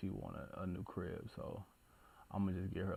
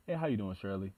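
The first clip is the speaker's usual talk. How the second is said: greeting the accountant. Pretend. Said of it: "I probably have female".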